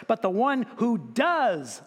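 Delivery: "does" stretched out slowly for emphasis; stress on DOES. Shown as a demonstration. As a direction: underline the word "does" with your voice. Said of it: "I would underline that".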